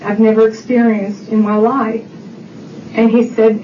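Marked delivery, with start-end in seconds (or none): 0.0-2.1 deliberate, broken into short phrases; retold solemn, measured testimony; very distinct words. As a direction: pause before each phrase, unhurried. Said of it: "the cab driver was very distinct in his words".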